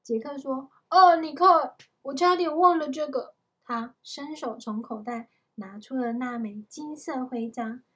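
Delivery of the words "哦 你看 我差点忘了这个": loud, raised burst of excitement; sudden remembering. A narrator's reading. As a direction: exclaim as you suddenly remember. Jack suddenly remembers the medal.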